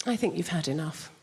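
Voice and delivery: lightly voiced, primly stern English mum; a hint of a strict English mum. English mum at a friend's house stopping seconds, mildly stern. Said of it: "conversation with mum's more like this".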